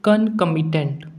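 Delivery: concomitant said very slowly, syllable by syllable; slow word demo. Shown as a demonstration. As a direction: spell out concomitant slowly for students. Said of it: "तो पहला word है".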